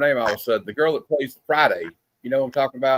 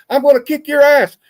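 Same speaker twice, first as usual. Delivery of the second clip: high, loud mock brawl yell; retold shout; 12 semitones higher, 7 dB louder than usual. Retelling a fighting guy from a skit, loud yell. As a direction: bark it like a shirtless guy picking a fight.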